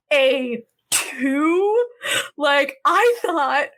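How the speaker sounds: slow, half-crying mock lament; mock tearful hurt. Heroine to the maid who took her place, slow mock-tearful. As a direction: play the betrayed heroine, wounded and slow.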